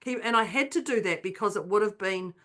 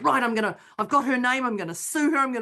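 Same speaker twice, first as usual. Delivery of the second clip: crazy inner voice; 3 semitones higher than usual. Retold or imitated. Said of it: "I could hear my crazy".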